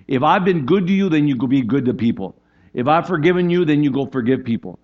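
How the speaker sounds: put-on God urging His children to pass it on; voicing God. Preacher voicing God pushing them out of the nest, rising firm. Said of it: "God says".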